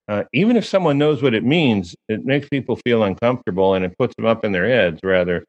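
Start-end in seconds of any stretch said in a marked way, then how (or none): none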